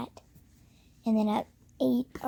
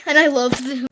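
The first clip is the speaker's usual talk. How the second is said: laughing through the words; giggling as she says it; 14 dB louder, faster than usual. Real, not acted. Laughing while talking about pets.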